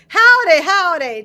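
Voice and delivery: high, loud falling greeting; cheery howdy. Real, not acted. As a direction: hail the whole chat at once. Greeting viewers loudly.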